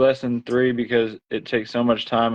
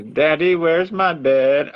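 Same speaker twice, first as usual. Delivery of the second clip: put-on little girl voice; 4 semitones higher, slower than usual. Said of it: "baby girl tells us".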